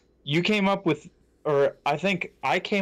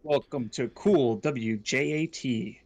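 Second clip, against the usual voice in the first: radio announcer voice; slower than usual. Pretend. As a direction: announce it like a late-night DJ. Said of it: "That was good".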